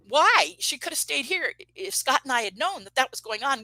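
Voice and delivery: shocked disbelief. Retold or imitated. Retelling her shocked reply to roommate.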